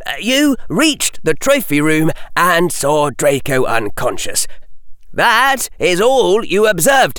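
put-on young boy outraged at the verdict. A narrator's reading. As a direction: protest it in disbelief. Harry argues.

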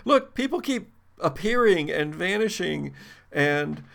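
high, frantic, flustered voice; panicked young woman. Acted. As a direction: babble it in a panic.

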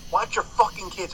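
mild mock yell at the deer; retold yell at a deer. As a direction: snap it out like scolding a careless mother. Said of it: "I yelled at the mother".

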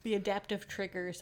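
talking through a yawn. Real, not acted. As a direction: say it mid-yawn. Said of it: "I'm sorry, I was yawning".

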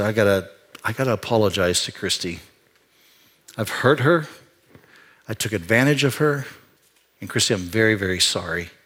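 soft, low, close to tears; tearful apology. Retold or imitated. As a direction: say sorry to your wife from the heart. Tearful apology to wife Christy.

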